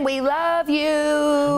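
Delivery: slow, stretched affectionate greeting; drawn-out love. Real, not acted. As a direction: draw it out with love. Greeting guest warmly.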